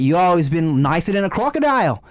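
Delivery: put-on Aussie accent; lightly voiced Australian bloke. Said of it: "weird accent you're doing".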